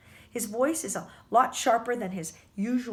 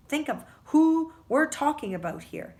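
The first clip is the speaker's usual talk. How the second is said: higher, louder insistence; emphatic, insisting principal; insistent; 6 semitones higher, 5 dB louder than usual. A narrator's reading. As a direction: press the point firmly. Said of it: "the principal insists".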